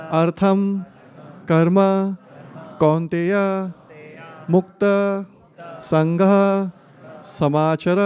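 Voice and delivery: one word at a time, each separated; staccato. Shown as a demonstration. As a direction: pause between every single word. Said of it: "one word at a time".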